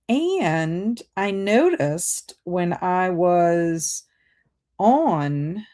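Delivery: slow, halting robot voice. Real, not acted. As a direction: talk like a distracted robot. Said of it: "That's why I'm talking like a robot".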